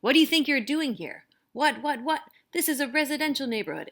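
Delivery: loud, high, furious yelling; a landlord shouting angrily at the family; angry shout. A narrator's reading. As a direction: bellow it at the intruders, outraged. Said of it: "he shouts in an angry voice".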